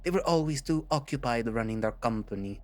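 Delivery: put-on bitter villain, lightly French-accented; bad French accent. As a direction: pour out old grievances in a put-on French accent. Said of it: "my most horrible attempt at making a French accent".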